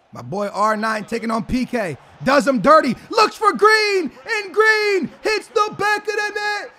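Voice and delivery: high, loud commentator shouting over the goal; hyped play-by-play. Acted. Streamer commentates his own goal, high excited shouting. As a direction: call the goal like a stadium announcer.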